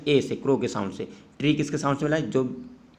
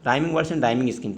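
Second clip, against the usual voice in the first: slow dictation; much slower than usual. Shown as a demonstration. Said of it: "तो rhyming words का answer कैसे लिखना है".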